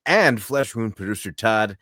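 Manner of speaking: upbeat host sign-off to the audience; show outro. Acted.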